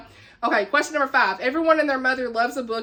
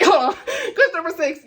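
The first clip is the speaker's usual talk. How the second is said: higher-pitched, amused recovery after a slip; real laughter; 5 semitones higher, 4 dB louder than usual. Real, not acted. Host restarting question six after a stumble, laughing.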